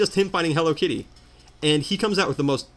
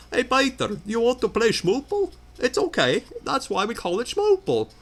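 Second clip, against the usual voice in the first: higher, put-on foreign cartoon voice; foreign Family Guy character; 8 semitones higher than usual. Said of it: "he sounds like that one foreign guy".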